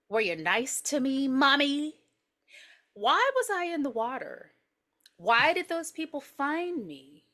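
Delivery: lightly voiced child questioning his mother; plaintive kid, lingering on each question; eerie little boy.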